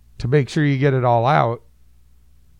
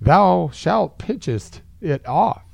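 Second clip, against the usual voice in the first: mock biblical decree; 4 semitones higher, much slower than usual. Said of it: "Jesus in mock King James".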